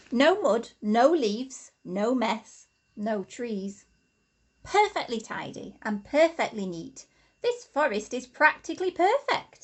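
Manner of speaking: a hint of a proud badger, punchy at first; lightly voiced badger, smug about his tidy forest; satisfied badger, lightly voiced; Pete pleased with himself. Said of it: "said Pete".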